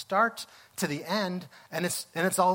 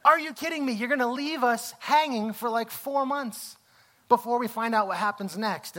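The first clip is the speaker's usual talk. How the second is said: high-pitched, half-hearted yelling at the TV; exasperated mock yell; 4 semitones higher than usual. Viewer yelling at the TV over a season cliffhanger, exasperated. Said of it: "yelling at the T V".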